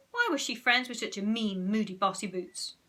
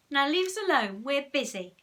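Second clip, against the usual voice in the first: snapping; 6 semitones higher, 6 dB louder than usual. Acted. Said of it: "snapped moody Margaret".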